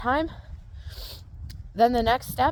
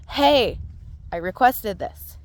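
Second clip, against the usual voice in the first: firmer request; slower than usual. Shown as a demonstration. Horse trainer demonstrating a firmer request, louder. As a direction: demo a firmer ask to the horse. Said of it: "get a little bit louder with your energy".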